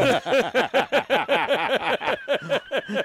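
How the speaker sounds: metallic flutter echo. Real, not acted. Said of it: "Just listen to the echo of that thing".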